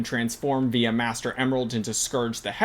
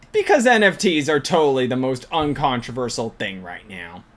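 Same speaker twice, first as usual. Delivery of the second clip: mock-earnest sarcasm, tailing off at the end; sarcastic; 2 semitones lower than usual. Real, not acted. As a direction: say it as if sincere, meaning the opposite. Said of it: "That was sarcasm".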